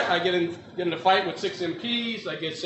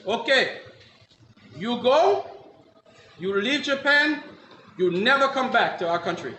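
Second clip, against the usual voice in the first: put-on halting Japanese-accented ruling, pausing between phrases; Japanese judge; 3 semitones higher than usual. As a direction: banish him as a Japanese judge. Judge banishes him, acted.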